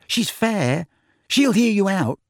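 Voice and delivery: high-pitched earnest reassurance; gently insist, voice lifted high. A narrator's reading. Tonks reassures Harry about his questioner, earnest. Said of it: "said Tonks earnestly".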